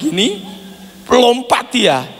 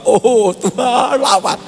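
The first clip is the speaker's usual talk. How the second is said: mock prayer; 5 semitones higher, slower than usual. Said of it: "kalau ada doa".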